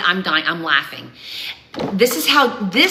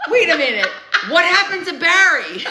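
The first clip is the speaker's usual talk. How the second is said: mock confusion; 8 semitones higher than usual. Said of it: "and we're like".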